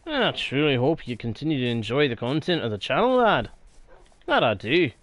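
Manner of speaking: a light, playful Scottish brogue with "lad" and "aye"; a friendly old Scots fellow welcoming someone back, lightly put on; Scottish accent. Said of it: "sometimes I do the accents just 'cause I find it fun".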